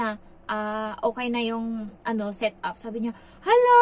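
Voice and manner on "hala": imitating the employer's squeal of surprise, much higher and louder; a shrill, delighted "Hala!" in her boss's voice; surprised gasp. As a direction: boss amazed the maid set it up, high surprised cry. Employer surprised by finished setup.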